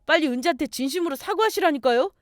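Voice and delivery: acted impatient urging; urgent demand. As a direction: push mother hard to apologise. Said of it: "남자친구가 다급하게".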